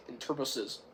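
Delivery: ordinary talk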